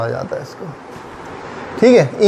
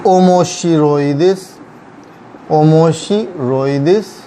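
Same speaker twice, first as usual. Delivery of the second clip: slow model word; slower than usual. Shown as a demonstration. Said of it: "teacher modelling Japanese word".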